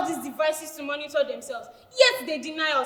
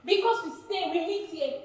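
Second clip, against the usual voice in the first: hurt, quiet; 7 dB quieter than usual. Acted. Hurt by teammate's comment.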